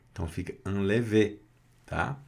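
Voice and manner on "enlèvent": "enlèvent" with no NT at the end; silent NT in "enlèvent". Shown as a demonstration. Teacher showing the resulting pronunciation, silent NT in "enlèvent". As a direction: leave the NT of "enlèvent" unsounded. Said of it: "não pronuncia o N T".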